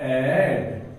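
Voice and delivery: "एडमिशन" split as ad, mi, shan with long gaps; syllable by syllable. Shown as a demonstration. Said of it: "बड़ा बड़ा word लिखाना सिखाता हूं".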